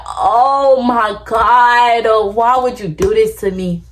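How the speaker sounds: hurt. Retold or imitated. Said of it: "My heart was hurting".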